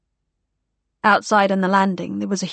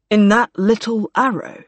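raised, incredulous question; amazed officer; 4 dB louder than usual. A narrator's reading. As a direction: marvel at the tiny plane. Gore amazed at plane.

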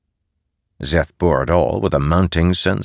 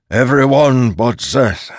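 raised, slow, forceful order; loud command; 8 semitones higher, 5 dB louder, slower than usual. Acted. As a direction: order the room cleared. Posen clearing the room.

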